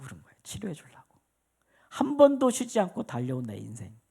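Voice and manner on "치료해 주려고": 치료해 주려고 breathed in a voiceless whisper; whispered repeat. Real, not acted. Preacher whispering 치료해 주려고 to the congregation after saying it aloud.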